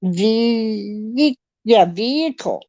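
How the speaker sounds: "vehicle" with the vee held, then a bump. Retold or imitated. Canadian demonstrating the American word, "vehicle" stretched at the vee. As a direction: hang on the first syllable of "vehicle". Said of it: "It's that little bump".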